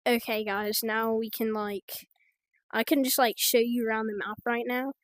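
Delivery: rough attempt at an Australian accent; badly faked Australian accent; weird Australian accent. Shown as a demonstration. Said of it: "I can also kinda do a weird Australian accent".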